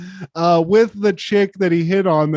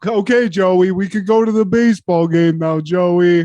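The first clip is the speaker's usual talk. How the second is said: slightly louder boxer voice; mock dazed boxer; 4 dB louder than usual. Boxer after being hit.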